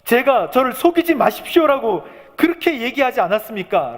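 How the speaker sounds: high, pleading protest, acted out; reproachful complaint to God. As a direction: cry out the grievance to the Lord. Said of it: "이 원망도 하나님께 하시게".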